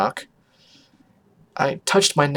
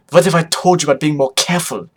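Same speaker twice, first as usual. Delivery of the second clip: put-on scolding in a louder, rough accent; Photo Finish; 3 semitones higher, 6 dB louder than usual. Mother scolding Vinyl, rough put-on accent. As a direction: scold with a thick foreign accent. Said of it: "Her accent was rough".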